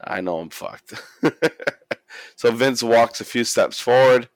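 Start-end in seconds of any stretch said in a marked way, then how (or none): 0.0-0.9 hushed, low mock realisation; quiet acted resignation; resigned dread. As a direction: mutter it under your breath, doomed. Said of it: "Basically saying".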